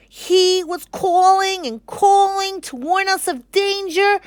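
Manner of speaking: a frantic little monkey pleading. Acted. The monkey pleading with King Lion, high squeak. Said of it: "said the monkey".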